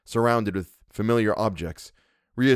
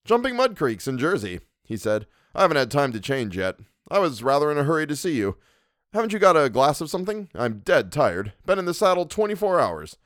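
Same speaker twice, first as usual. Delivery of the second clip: breezy cousin; 7 semitones higher than usual. Acted. Tired cousin chattering.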